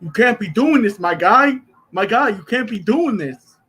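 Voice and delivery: a hint of Rami's tough-guy warning; Rami impression. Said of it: "sound like Rami".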